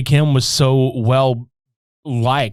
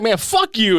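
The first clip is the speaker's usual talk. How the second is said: higher-pitched retold anger; mock mad; 7 semitones higher than usual. Brother lashing out at the boyfriend, mock mad. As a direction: imitate a furious brother, lightly. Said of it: "Dude is so mad".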